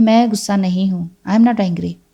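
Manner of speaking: usual speaking voice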